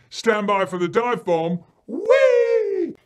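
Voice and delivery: put-on loud whooping children at play; boisterous play. Children dive bombing in front room, boisterous yelling. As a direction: yell it out like a wild stunt game.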